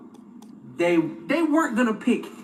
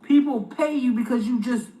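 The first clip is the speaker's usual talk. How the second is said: slow scolding; 6 semitones higher than usual. Real, not acted. Scolding the Michael impersonator.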